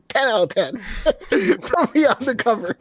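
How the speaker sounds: high, slow, hammy critic; hack reviewer voice. Retold or imitated. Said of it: "I'm a hack of a writer".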